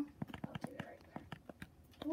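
slow unvoiced whisper to self. Real, not acted. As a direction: whisper it to yourself, very slowly. Muttering while placing torches.

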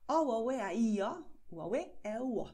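vowel sentence O, u, a, u, e rattled off quickly. Shown as a demonstration. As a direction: speed the vowels up. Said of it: "noch einmal, aber schneller".

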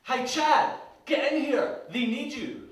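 loud, high shout for someone to come; urgent call. Acted. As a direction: call out urgently across the cabin. Calling the steward over in scene.

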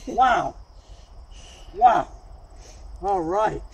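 gasping from the icy water; catching breath after cold shock; in ice cold water. Real, not acted. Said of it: "Man, that's cold".

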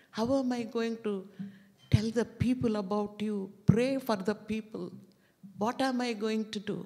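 half-hearted sob of a man pleading with the Lord; mild crying prayer. Retold or imitated. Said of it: "He came and he was crying".

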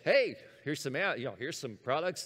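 upbeat salesperson's opener; optimistic pitch. Acted. Google offering products to a searcher, optimistic pitch. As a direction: open brightly with a hopeful sales offer. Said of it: "Google's optimistic here".

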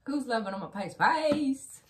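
loud, high hype call to Pisces; calling out Pisces with a big rising cheer; excited call-out. Real, not acted. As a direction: shout it out to your sign.

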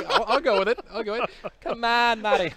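a hint of a loud New York accent; playful New York accent. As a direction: lean into a Jewish New Yorker voice. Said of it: "You sound like a Jewish New Yorker".

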